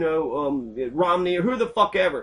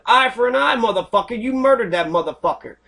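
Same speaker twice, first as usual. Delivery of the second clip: furious outburst; 5 semitones higher than usual. Real, not acted. Furious at alleged killer.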